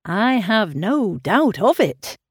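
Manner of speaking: slow, sighing lover's reply; sighing animation. Acted. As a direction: sigh it out like a lovesick suitor. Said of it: "spoken with a sort of sighing animation".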